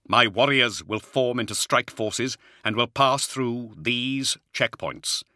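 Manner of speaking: lightly voiced commander issuing orders; commander Luther. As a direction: lay out the battle plan with authority.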